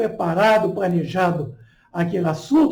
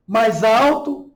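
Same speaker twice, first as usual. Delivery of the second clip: raised voice, drawn out slowly; louder voice; 3 dB louder, slower than usual. Shown as a demonstration. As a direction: demonstrate speaking up, slowly. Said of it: "modificando o tom de voz".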